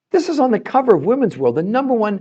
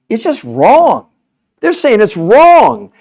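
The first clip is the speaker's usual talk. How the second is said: louder, and the second line drawn out slowly; passionate; 3 semitones higher, 8 dB louder, much slower than usual. Real, not acted. Host ranting to a commenter about calories, louder and passionate. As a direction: hammer the point home with real heat. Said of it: "I get passionate".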